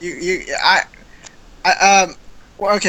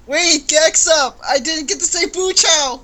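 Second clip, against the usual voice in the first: theatrical; 5 semitones higher than usual. Acted. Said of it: "I'll do another take".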